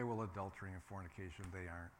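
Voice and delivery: a hint of a self-satisfied churchgoer; smug listener. Preacher voicing a smug listener, mock smug. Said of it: "And you can say".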